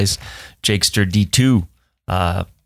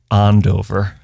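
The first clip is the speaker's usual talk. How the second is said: Boston accent. Shown as a demonstration. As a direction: drop the final r in "Andover", say it "Andovah".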